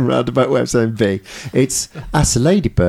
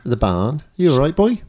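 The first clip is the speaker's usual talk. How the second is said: Norfolk barn; 2 semitones higher than usual. Shown as a demonstration. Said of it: "there's no R".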